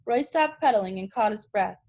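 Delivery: read-aloud chapter voice; reading a chapter book aloud to students; story narration. A narrator's reading. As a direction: read the novel to the class, steady and clear. Teacher reads novel aloud.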